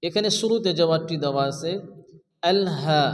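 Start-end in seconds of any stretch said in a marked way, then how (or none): 2.5-3.0 "হা" held for one beat; teacher's measured long "হা"; elongated vowel. Shown as a demonstration. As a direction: stretch the "হা" in "আল হা". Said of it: "এক আলিফ পরিমাণ টান দিয়ে".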